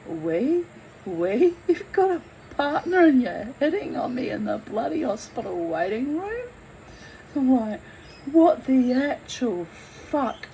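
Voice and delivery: incredulous, indignant rant; mock outrage at being hit on; appalled disbelief; outraged disbelief. Outraged at man hitting on her.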